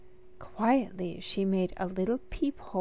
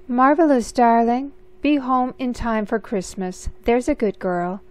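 cheery mother; 4 semitones higher, 7 dB louder than usual. Acted. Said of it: "said her mother".

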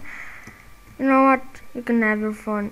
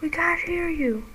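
raised, high and loud demand to speak up; yelling up at the gamer, louder; mock yell from a teammate; 7 semitones higher, 5 dB louder than usual. Player voicing a teammate's complaint, a mock high yell. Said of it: "I'm like".

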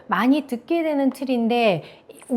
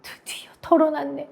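higher, breathy whispered relief; confiding whisper; 4 semitones higher than usual. Acted. Teacher acting out telling a friend a secret, whispered. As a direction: half-whisper it as a secret finally out. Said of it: "친구한테 비밀 얘기해서".

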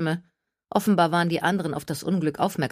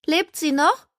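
put-on high, anxious young woman's voice; worried friend; 12 semitones higher, 5 dB louder, slower than usual. A narrator's reading. Friend asking about fallen Gertie, high and anxious. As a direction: call it high and worried across the bushes.

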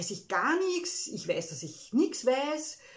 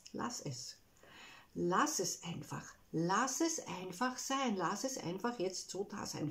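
gentle mantra; 6 dB quieter than usual. Shown as a demonstration. Sein wichtiger Satz, sanft wiederholt. (sanft und langsam wie ein Mantra)

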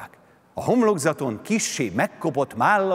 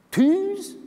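high, bewildered crowd voice asking; dumbfounded people asking, much higher pitch; puzzled crowd; 4 dB louder than usual. A narrator's reading. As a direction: ask it blankly, way up high. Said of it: "kérdezte valamennyi, és bambán rázta".

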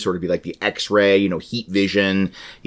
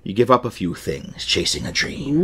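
pirate voice; 4 dB quieter than usual. Acted. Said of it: "I was being piratical".

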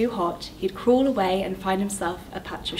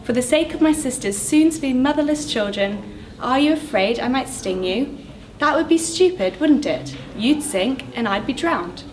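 higher, pleading scorpion voice; coaxing scorpion; 3 semitones higher than usual. Acted. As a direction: wheedle the frog into it. Scorpion keeps begging and coaxing.

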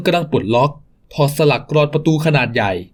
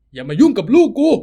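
much higher, desperate cry to keep the hands off; protective shout; 6 semitones higher than usual. Acted. Father shouting at the thug to protect his son, high desperate. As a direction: shield your son with your voice.

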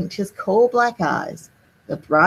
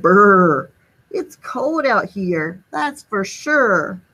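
slow shivery snowman voice; shivering snowman; slower than usual. Acted. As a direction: shiver through the words, drawn out. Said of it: "Sneezy the snowman shivered".

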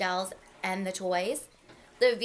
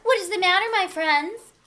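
high, friendly engine voice; sweet, concerned storybook question; kindly asking; 7 semitones higher, 5 dB louder than usual. A narrator's reading. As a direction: ask it kindly, pitched up. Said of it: "she asked kindly".

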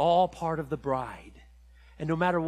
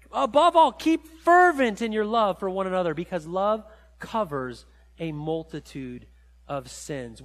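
urgent scripture; 7 dB louder than usual. Shown as a demonstration. Preacher urging the congregation to keep fervent love, emphatic. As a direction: press the verse home with force.

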